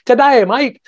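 high, bright Aussie greeting imitation; mock Australian "Good day, mate"; Australian accent. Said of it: "I love your Australian accent because I imitate Australia".

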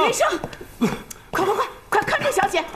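high, urgent, rushed cry; aunt shouts for servants to catch the girl; panicked call. Acted. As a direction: hurry the servants in alarm.

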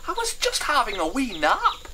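high, loud protest over lost sleep; weary grumbler. Acted. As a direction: whine like someone woken up. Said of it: "he asked wearily".

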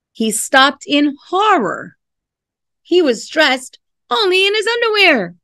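lively storybook reading voice; expressive picture-book narration; reading to children. Acted. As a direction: read it like a bedtime story. Reads picture book aloud.

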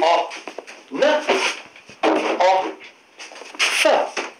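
isolated phonics sounds, O, n, o, f; each of O, n, o, f said alone as its sound; letter sounds. Shown as a demonstration. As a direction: sound out "O, n, o, f" with gaps between. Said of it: "o sound".

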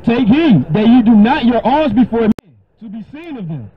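scripture reading again. Acted. Preacher rereads the verse to the questioner, solemn. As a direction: reread the line with fresh weight. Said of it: "read it again".

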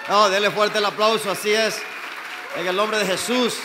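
building from steady to shouting; preaching climax. Real, not acted. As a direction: build to a roaring call for applause.

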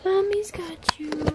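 high cooing comfort. Real, not acted. Mother picks up crying baby.

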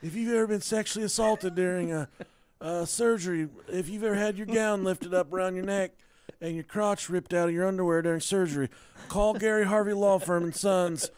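fast, eager injury-lawyer ad read; lawyer commercial voice. Pretend. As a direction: pitch it like a cheesy TV lawyer. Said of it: "spot-on impression".

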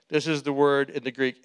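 normal talking voice

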